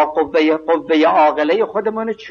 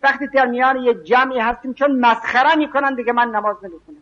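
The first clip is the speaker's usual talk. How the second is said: higher-pitched imitation of someone making excuses; pitched-up mock voice of a man who fears ridicule; excuse-maker's voice; 7 semitones higher than usual. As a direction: whine out the excuse of skipping prayer among others. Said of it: "میگه".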